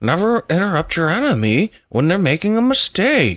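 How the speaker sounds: very high voice, slow and swooping. Showing another speaker how Saul Alinsky sounds: Saul Alinsky voice. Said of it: "He sounds like this".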